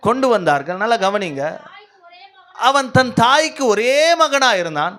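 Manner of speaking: scripture declamation. Real, not acted. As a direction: proclaim the verse phrase by phrase. (உரத்த, நிதானமான வேத வாசிப்பு)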